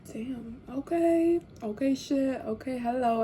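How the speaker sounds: playfully impressed drawl; impressed surprise. Retold or imitated. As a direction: savor the compliment, stretching each okay. Flattered by his reaction.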